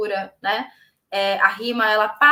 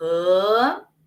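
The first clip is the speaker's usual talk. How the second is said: rã said with pitch rising through it; 3 semitones lower than usual. Explaining the second tone, the one that rises: rising tone on rã. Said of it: "um segundo tom em que eu vou subir".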